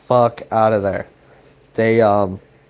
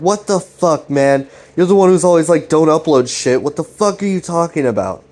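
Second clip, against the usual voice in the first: a friend's disbelieving, angry retort; outraged; 4 semitones higher than usual. Retold or imitated. Chris outraged at the YouTube idea.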